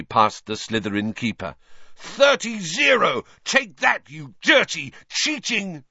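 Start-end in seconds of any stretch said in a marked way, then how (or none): 2.0-5.8 gloating taunt. A narrator's reading. Lee Jordan taunts Slytherin, gloating jeer. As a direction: crow over the score.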